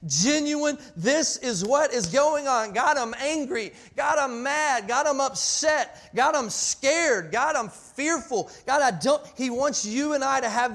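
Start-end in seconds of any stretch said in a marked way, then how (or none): 1.0-9.2 louder, higher heartfelt appeal, phrase by phrase; impassioned mock prayer. Preacher modelling an honest prayer to God, impassioned. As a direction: pour it out to God in slow, punched phrases.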